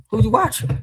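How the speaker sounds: high, loud, sharp question; loud challenge. Real, not acted. Streamer challenging viewers on who they watch, loud challenge.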